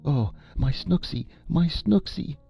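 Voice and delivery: high, keening moan of a doting aunt. A narrator's reading. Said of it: "she moaned".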